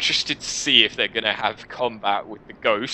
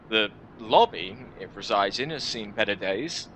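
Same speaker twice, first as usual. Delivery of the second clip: measured dramatic storybook reading; story narration. Acted. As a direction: read the adventure aloud like an audiobook. Reads game story aloud.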